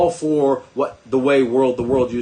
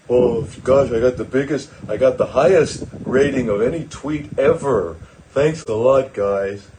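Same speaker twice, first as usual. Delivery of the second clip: a lightly voiced dumb old billionaire, pleased with himself; Elon Musk impression. Mocking Elon Musk bragging about his tweet, lightly voiced and smug. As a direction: gush over the record tweet, only a hint of a put-on voice. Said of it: "Just playing the dumb old billionaire".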